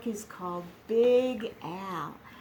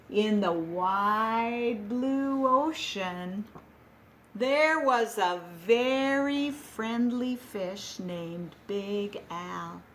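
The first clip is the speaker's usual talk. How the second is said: slow storybook read-aloud; gentle read-aloud to a class; reading to children; slower than usual. Acted. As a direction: read it like story time for little ones. Reads picture book to class.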